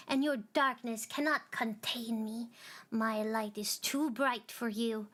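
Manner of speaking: a touch of angry defiance; mild defiance. Acted. The little star defying the darkness, mildly angry. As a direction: push back at the darkness with bite. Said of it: "had grown wary and angry".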